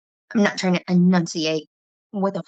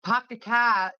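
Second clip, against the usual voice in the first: East Coast "pahk the cah", pitched up; imitated East Coast accent; 4 semitones higher, slower than usual. Mimicking friend's R-less sentence, imitated East Coast accent. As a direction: open each "ar" to "ah", East Coast style. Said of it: "everything's like an ah".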